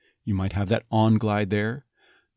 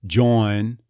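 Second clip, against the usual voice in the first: Texas accent. Shown as a demonstration. An accent coach saying join in Texas style. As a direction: join in an East Texas drawl. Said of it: "East Texas".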